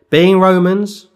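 loud, high indignant outburst; angry Paul. Retold or imitated. Preacher voicing Paul's outrage at magistrates, loud and high. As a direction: throw it out with wounded pride. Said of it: "a level of anger there".

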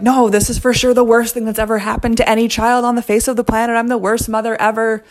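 telling the nurse she failed, hammed-up distress; near tears. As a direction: overplay the worst-mother panic. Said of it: "on the verge of tears explaining".

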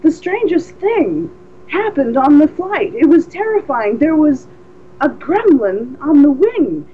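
a hint of Shatner's dramatic halting read; mildly hammed-up haunted telling. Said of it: "I can't quite remember his exact delivery".

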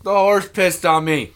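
mock outrage at an indignity; acted disgusted complaint. Character discovers horse urinated on him.

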